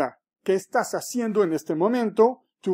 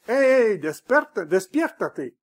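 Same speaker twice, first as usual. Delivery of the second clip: wake-up shout; 2 semitones higher, 5 dB louder than usual. Retold or imitated. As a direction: yell it to jolt a sleeper awake. Waking people with a shout.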